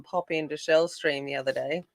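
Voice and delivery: usual speaking voice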